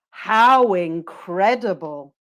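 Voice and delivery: slow, stretched "How incredible"; deliberate drill delivery of "incredible"; model intonation. Shown as a demonstration. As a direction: draw out "incredible" with a rise and fall. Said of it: "listen to my intonation".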